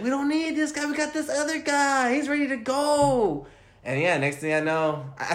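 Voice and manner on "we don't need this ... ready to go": mock confident fan. Fan recalls dismissing the old running back, mock confident. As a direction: brag about the new pick like a smug know-it-all. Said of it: "I was like".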